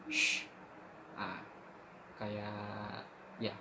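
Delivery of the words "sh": "sh" held as a hissing sh; shin sound. Shown as a demonstration. Teacher showing students the shin letter, a drawn-out sh. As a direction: hold out a clear "sh" sound. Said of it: "Kalau yang shin besar".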